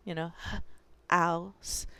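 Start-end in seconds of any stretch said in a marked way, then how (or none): 1.1-1.9 drawn-out ouse sound; "ouse" stretched like a kid sounding it out. Retold or imitated. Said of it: "They say".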